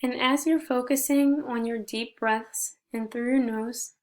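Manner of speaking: gentle meditation guide with long pauses between phrases; guided meditation. Shown as a demonstration. Leading listeners in reflecting on gratitude, guided meditation. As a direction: guide them through breathing, slightly softened, unhurried pauses.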